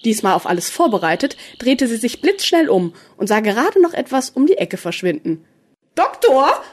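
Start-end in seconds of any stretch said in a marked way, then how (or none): 5.9-6.6 high-pitched call with some panic; slightly panicked. A narrator's reading. Rika calls the Doctor after glimpsing a ghost, slightly panicked. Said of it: "rief sie mit etwas Panik in der Stimme".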